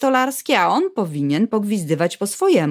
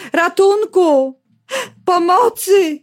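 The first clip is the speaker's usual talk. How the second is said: higher, slow drawn-out call for help; cry for help; 9 semitones higher, 4 dB louder, much slower than usual. Acted. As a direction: call out across the village. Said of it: "rozdzierający krzyk Stasi". (woła o pomoc, wyżej i wolno)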